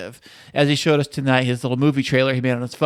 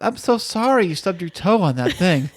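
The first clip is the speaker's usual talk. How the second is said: mock sympathy; 2 semitones higher than usual. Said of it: "you gotta, like".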